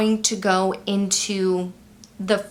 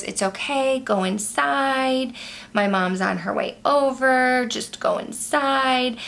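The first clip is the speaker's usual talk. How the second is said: calm and soothing, a bit higher; 4 semitones higher than usual. Retold or imitated. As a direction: gently soothe a frightened dog. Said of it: "like, in a calm voice".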